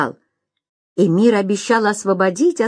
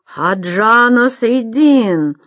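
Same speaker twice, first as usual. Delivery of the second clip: slow, louder exclamation of the name; exclaimed; 3 semitones higher, 4 dB louder, much slower than usual. Acted. Arslanbek recognizing Nasreddin, a startled exclamation. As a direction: Arslanbek crying out in shock. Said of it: "воскликнул Арсланбек".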